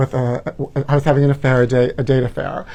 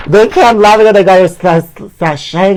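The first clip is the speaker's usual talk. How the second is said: laughing; 4 semitones higher, 4 dB louder than usual. Real, not acted. Laughing at picture.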